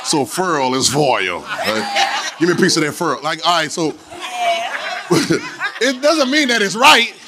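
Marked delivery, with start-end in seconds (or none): 0.1-1.4 "furl" in dialect, "foil" with full oy; slow, low lesson: "furl" becomes "foil"; dialect then standard. Shown as a demonstration. Preacher translating for congregation, contrasting pronunciations. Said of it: "Let me bring y'all to class". 2.4-3.2 "furl" for foil, one syllable; family dialect pronunciation. Acted. Preacher quoting family at home, dialect pronunciation. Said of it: "Mom and them kept on saying furl".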